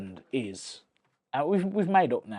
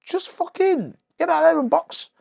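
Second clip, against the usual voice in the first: high, slow, urgent self-command; inner pep talk; 6 dB louder, slower than usual. Retold or imitated. Dazed boxer's mind urging him on, high and slow. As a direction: push yourself back into the fight, slowly and high. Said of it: "my mind saying".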